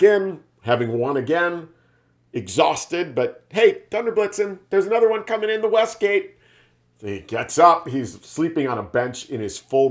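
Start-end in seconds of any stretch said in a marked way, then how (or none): 3.5-6.4 high alarmed call to the commander; urgent call. Retold or imitated. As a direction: call him awake, pitched way up. Soldier calling out to leader.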